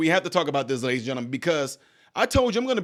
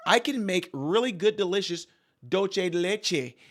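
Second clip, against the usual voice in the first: mock sweet voice; 2 semitones higher than usual. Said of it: "She gets around certain people".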